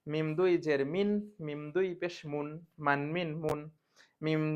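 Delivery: slow, stressed syllable-by-syllable reading; spelling drill. Shown as a demonstration. Teacher drills vowel marks for students to repeat. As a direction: read each vowel sound clearly. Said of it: "একটু হারকাতটা পড়ি".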